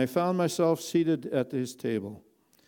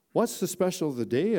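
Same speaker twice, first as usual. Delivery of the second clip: excited question; 5 semitones higher than usual. Acted. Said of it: "with excitement in my voice".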